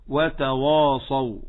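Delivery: slow وتواصوا with a thick, dark "waw-aa"; heavy waw. Shown as a demonstration. Teacher imitating others' mistake, heavy waw in وتواصوا. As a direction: wrongly darken the وا in وتواصوا. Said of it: "لا تقل كما يقول الآخرون".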